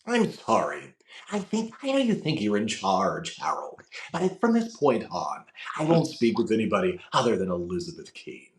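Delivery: calm, measured, lisping delivery; James Spader impression. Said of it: "So Spader goes".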